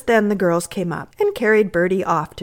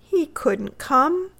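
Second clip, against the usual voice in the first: anxious; 8 semitones higher, much slower than usual. A narrator's reading. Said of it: "answered Bertie anxiously".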